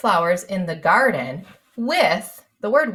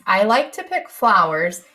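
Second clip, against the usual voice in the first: slow dictation; slower than usual. Shown as a demonstration. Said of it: "we know the word in".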